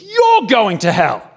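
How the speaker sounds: loud, high, drawn-out street-preacher cry; shouted street-corner condemnation; condemning shout. Retold or imitated. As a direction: bellow the verdict at the crowd, stretching it out.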